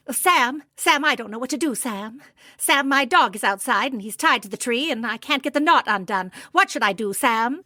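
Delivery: a hint of melodrama; asking Sam for help in a mock radio play. Shown as a demonstration. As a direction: play a worried radio drama caller. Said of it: "I'm gonna use my radio play voice".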